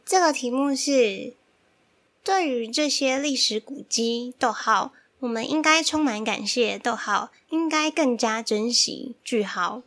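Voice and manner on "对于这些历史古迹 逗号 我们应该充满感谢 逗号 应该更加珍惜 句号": reading out the punctuation marks; dictating. Real, not acted. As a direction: read it like a dictation, stating every comma. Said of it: "你不用念标点符号".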